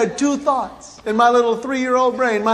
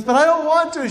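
higher mock-child protest; protesting son; 4 semitones higher than usual. Son objecting to his mother about the hat, mock protest. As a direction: imitate a kid resisting, pitched up.

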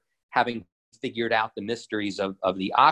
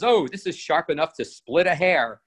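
high witchy cackle of a line, a bit higher; witch voice; 5 semitones higher than usual. Retold or imitated. Storyteller voicing the witch over her knife, mock witch voice. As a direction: gloat like a cartoon witch admiring her blade. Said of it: "she sharpens her knife and she goes".

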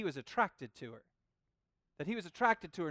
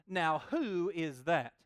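Boaz noticing her; 2 semitones lower, much slower than usual. Retold or imitated. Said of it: "he turns and looks and goes".

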